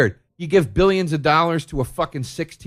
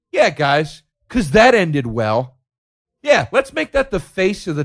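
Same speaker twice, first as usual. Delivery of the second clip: sarcastic; 4 semitones higher, 5 dB louder than usual. Acted. Sarcastic remark on Monroe.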